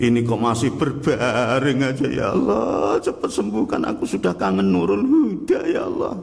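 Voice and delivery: a sick man begging to go back to the mosque; a touch of hammed-up weeping; mock tearful prayer. Preacher voices sick man praying.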